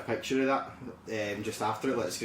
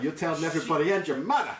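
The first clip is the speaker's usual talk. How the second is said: put-on New York accent, a touch higher; a bad New York impression; hammed-up New York accent; 5 semitones higher, 3 dB louder than usual. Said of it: "my horrendous impression".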